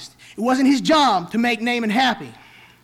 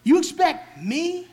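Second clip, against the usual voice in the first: rising indignant voice of a proud commander, higher and higher; proud Naaman; 5 semitones higher than usual. Acted. Preacher voicing proud Naaman, rising indignation. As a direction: voice Naaman's growing outrage at being told to bathe.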